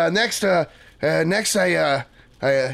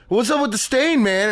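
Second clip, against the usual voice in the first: pitched-up mock heckle from the crowd; heckler's yell; 6 semitones higher than usual. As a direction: call it out like a planted heckler. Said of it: "he just yells out".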